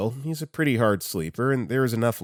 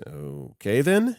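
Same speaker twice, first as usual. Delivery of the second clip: awkward reply; 2 semitones higher, slower than usual. Retold or imitated. Boss's awkward reply to flirting.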